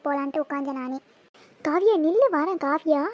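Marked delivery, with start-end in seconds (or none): 1.7-3.0 raised voice, calling her to wait. Acted. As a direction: call urgently to a friend walking away. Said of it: "Sathya கத்துற குரலை கேக்குதே".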